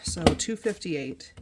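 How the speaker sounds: slow, deliberate total. Real, not acted. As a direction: say the sum slowly and clearly. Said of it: "I start going too fast".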